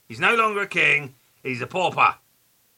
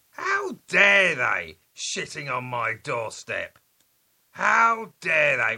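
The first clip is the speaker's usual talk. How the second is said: slow, hammed-up indignant rant; mock outrage. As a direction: play the wounded host, slowly.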